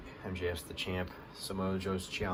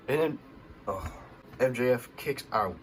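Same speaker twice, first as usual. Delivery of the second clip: excited; 5 semitones higher, 4 dB louder than usual. Real, not acted. Excited recap of near-fall.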